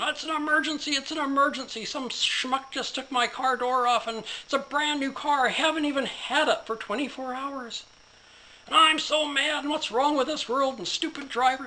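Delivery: high, loud, frantic ranting to 911; furious shout. Acted. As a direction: yell it like your new car just got wrecked. Businessman yelling at 911.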